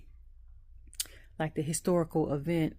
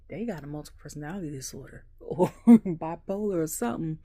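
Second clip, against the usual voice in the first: a hint of a mocking know-it-all, louder, laughing; mock outsider voice; 6 dB louder than usual. Telling viewers what others say about wrestlers, mocking. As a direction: voice the doubter with a laugh. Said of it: "somebody be like".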